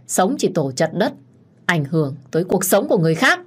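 unhinged shouting, mocking laugh; desperate rage with a sneering laugh. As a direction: rage and scorn at the husband. Đức gào lên muốn chết. (điên loạn gào thét)

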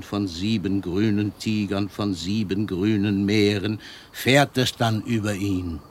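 poem recitation. Acted. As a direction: let each image of the sea land, unhurried. Poet recites his sea poem.

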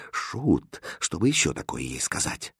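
low, very soft question; quiet aside. A narrator's reading. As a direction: ask under your breath. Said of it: "и тихо спросил".

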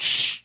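hushing "shh" as a lock opens; imitated lock release. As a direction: mimic the lock sliding open with "shh". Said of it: "and that lock".

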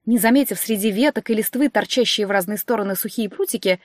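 usual speaking voice

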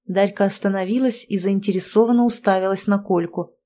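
ordinary delivery, nothing marked

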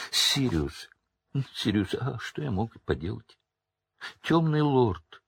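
put-on snivelling coward begging his old friend; terrified Pettigrew. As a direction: beg for your life, voice climbing.

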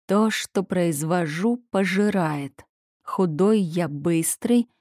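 prince mutters it over slowly, puzzling it out; slow, searching repetition of "пожирает"; slowly repeating. Acted. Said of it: "медленно проговаривал царевич".

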